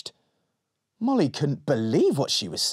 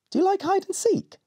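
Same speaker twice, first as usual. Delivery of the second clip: shadow voice. Acted. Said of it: "said the shadow".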